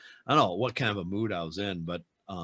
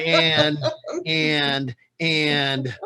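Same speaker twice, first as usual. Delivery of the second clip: blank stammer; 5 semitones higher, 6 dB louder, much slower than usual. Retold or imitated. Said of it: "I'll be like".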